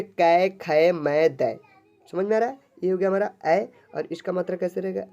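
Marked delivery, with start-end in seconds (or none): 0.0-1.6 कै, खै, मै, दै with the "ai" vowel stretched; syllable reading demo. Shown as a demonstration. Teacher reading ai-matra syllables for pupils, each drawn out. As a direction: recite कै, खै, मै, दै one by one. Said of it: "इसको हम लोग पढ़ेंगे".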